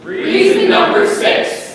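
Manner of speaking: high, loud and slow heading call; slow high announcement. Acted. Announcing the next reason to the audience, high and slow. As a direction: stretch it out like a grand announcer.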